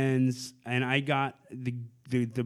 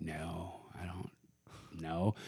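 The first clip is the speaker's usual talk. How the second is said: very soft, low, halting answer; retold wary denial; 8 semitones lower, 14 dB quieter, slower than usual. Man answering a stranger's message, retold wary denial. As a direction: say it under your breath, guardedly.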